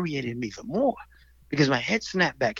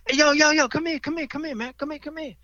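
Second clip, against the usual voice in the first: high, loud street call across the road; 13 semitones higher, 5 dB louder than usual. Retold or imitated. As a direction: yell him over, coaxing then menacing. Thugs calling him over.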